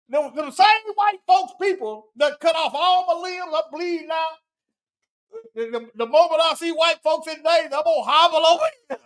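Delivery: mock the devoted helper, close to laughing. Commentator acting an injured helper of white folks, mocking. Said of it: "that's why I'm mocking this".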